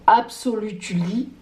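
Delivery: put-on English word with a jokey English accent; showy mock English accent; playful English accent. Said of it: "toujours l'accent anglais très bien positionné".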